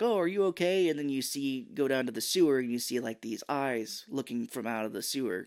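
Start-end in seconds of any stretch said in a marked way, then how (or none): 0.0-0.9 higher, concerned police officer; mock concerned cop. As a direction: play the worried cop, a bit higher. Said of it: "the police are like".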